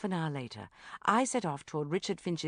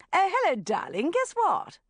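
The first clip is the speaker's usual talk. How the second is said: gushing mother, much higher and louder; bubbly mum bursting with news; mother ringing her daughter at work; 11 semitones higher, 6 dB louder than usual. Acted. Mum voiced on phone.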